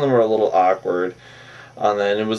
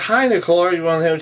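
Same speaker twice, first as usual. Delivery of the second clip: higher-pitched mock-sweet sarcasm; sarcastic; 5 semitones higher, faster than usual. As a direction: imitate a catty, sarcastic greeting. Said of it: "She's being sarcastic bitch on it".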